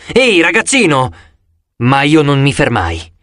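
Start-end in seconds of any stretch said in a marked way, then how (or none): 0.1-1.1 calling out, pitched higher; narrated guard's shout at half force; restrained shout. A narrator's reading. Security guard stopping a running kid, restrained shout. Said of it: "La guardia di sicurezza al metal detector gridò".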